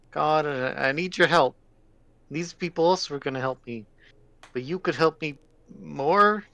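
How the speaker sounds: put-on a small lost boy begging for help; child voice.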